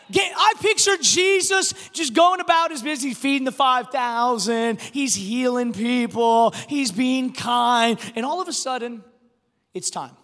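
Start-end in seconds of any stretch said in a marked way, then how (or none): 0.1-9.0 energetic pulpit delivery, stretched phrase endings; emphatic, measured sermon cadence; preaching. Real, not acted. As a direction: build the list like a preacher. Preaches with rising force.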